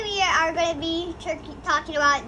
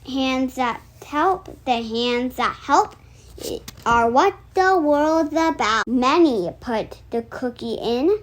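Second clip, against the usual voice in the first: steady, sing-song read-aloud of a rhyming book; reading a picture book aloud; 3 dB louder, slower than usual. Acted. Reading the cookie book to her viewers, storytime read-aloud.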